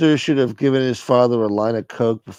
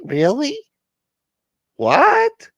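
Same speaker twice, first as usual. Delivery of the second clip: shocked shriek; 3 dB louder, much slower than usual. Acted.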